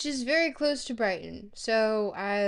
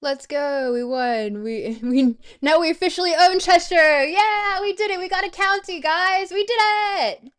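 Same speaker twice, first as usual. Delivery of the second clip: loud victory shouting, climbing higher as it goes; triumphant cheer; 7 semitones higher, 11 dB louder than usual. Real, not acted. Streamer tells chat they officially own Cheshire, triumphant shouting. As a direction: celebrate at full volume, building to a high yell. Streamer celebrates winning the county.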